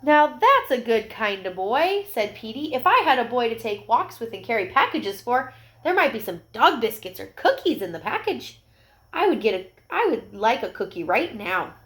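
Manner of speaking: a hint of a hopeful puppy; small eager dog. Petey voiced in story.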